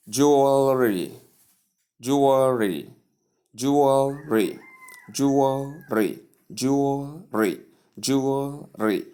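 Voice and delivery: "Jewelry" slowly as JOO-ul-ree; correct pronunciation. Shown as a demonstration. Teacher introduces word number four to learners, slow careful pronunciation. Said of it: "right pronunciation".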